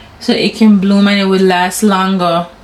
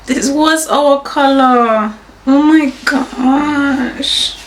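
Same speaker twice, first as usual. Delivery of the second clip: moved, slow; 5 semitones higher, much slower than usual. Real, not acted. Realizing the wedding color, moved.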